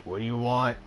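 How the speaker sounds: a guarded stranger snapping at the buzzer; brusque intercom voice. Acted. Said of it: "a brusque voice answers".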